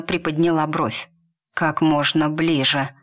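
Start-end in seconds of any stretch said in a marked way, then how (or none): 1.5-2.9 a hint of hoarseness, admitting it; hoarse. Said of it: "хрипло признался он".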